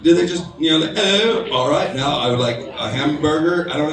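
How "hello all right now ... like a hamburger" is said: British actor's mock American accent; dropping the British accent into American. Shown as a demonstration. British actor faking American, plain American accent. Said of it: "to do American".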